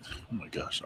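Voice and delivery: breathy whispered aside. Real, not acted. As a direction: whisper it under your breath. Frustrated aside over a hard name.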